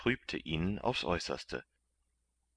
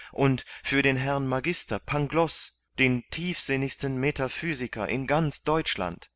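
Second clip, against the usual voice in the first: eager bargaining; 8 semitones higher, 4 dB louder than usual. A narrator's reading.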